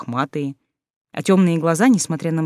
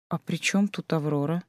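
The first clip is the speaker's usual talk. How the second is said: softer, careful question; cautious question; 6 dB quieter than usual. Acted. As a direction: ask warily and gently. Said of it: "осторожно уточнила Алиса".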